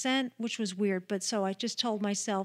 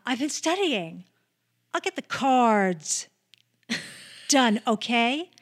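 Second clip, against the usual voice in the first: stagey, slightly louder schoolgirl reading; weird distinctive delivery; 4 dB louder than usual. Retold or imitated. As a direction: overenunciate it like a stiff actress. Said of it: "she had a weird, distinctive delivery".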